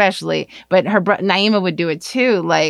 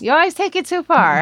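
mock outrage; 11 semitones higher than usual. Mock accusing friend.

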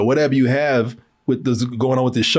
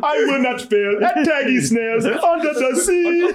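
slow, higher solemn pledge; mock solemn vow; 10 semitones higher than usual. Jake vowing to tag snails, slow solemn mock. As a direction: swear it like an oath.

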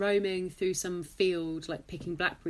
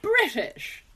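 slow mock reply; 7 semitones higher, 5 dB louder, much slower than usual. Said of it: "meeting some Americans".

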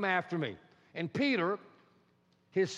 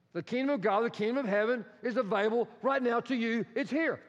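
proclaimed slogan; 5 semitones higher than usual. Acted. Same slogan proclaimed again.

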